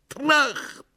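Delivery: high-pitched exclamation of the bang; echoed bang. Acted. Koroviev chiming into the story, high exclamation.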